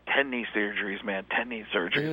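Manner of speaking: soft low weary football voice; a hint of a tired big guy complaining; lightly voiced Howie. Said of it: "he's like".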